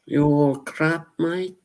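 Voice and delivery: a jokey high-pitched British jab; British accent. Pretend. Streamer mocking chat in a British accent. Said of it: "I like doing those accents".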